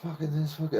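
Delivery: taking the piss out of mum's swearing; sneering mimicry at his mother; mocking imitation. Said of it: "I'm just taking piss out of her".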